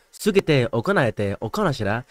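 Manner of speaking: punchy Japanese-sounding gibberish; punchy mock Japanese. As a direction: imitate the beat of Japanese with nonsense. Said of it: "One's flowy and one's punchy".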